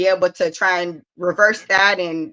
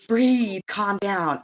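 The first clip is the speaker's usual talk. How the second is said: calm, soft coaching to breathe; soothing breathe cue; 3 dB quieter, much slower than usual. Shown as a demonstration. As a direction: talk a child down gently. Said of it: "I literally have to say".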